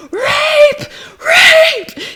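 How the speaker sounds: high, loud mock screaming; imitated scream. Retelling the bride screaming at captors, mock scream. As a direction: belt it out, laughing through the second. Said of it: "and she screams".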